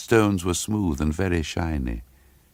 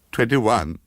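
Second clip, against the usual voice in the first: frightened count; 7 semitones higher, 4 dB louder than usual. A narrator's reading. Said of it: "she said".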